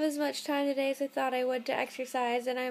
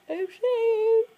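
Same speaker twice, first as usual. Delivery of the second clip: loopy squeak; 8 semitones higher, 6 dB louder than usual. Real, not acted. Rambling tired, voice jumps up.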